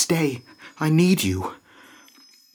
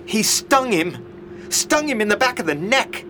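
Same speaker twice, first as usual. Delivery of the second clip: higher-pitched horrified report; shocked; 6 semitones higher than usual. Acted. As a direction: report the attack in dismay. Watching a man get stung.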